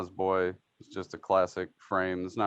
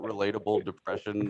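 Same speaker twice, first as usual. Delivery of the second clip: laughing, mocking the phrase; ironic air quotes. Shown as a demonstration. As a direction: put ironic quote marks on it. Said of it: "quote unquote".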